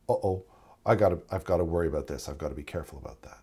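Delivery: low, soft, hurried muttering to oneself; quiet worried aside, trailing down; inside voice. Acted. Experienced paramedic's private thought on a very sick patient, inside voice. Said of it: "in my inside voice, internal voice".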